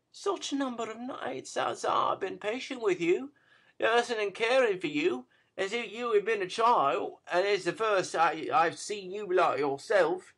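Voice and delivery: put-on high, pleading young woman; a lightly voiced girl pleading with her man; tender pleading. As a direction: coax him with growing urgency. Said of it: "touch of woman's tenderness".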